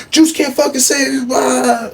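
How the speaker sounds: high, loud mock threat; imitated screaming. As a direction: scream the threat like you mean it. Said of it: "he was screaming".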